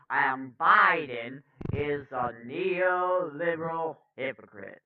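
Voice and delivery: rough first-try orator impression; Cornel West. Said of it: "I can do a better Cornel voice".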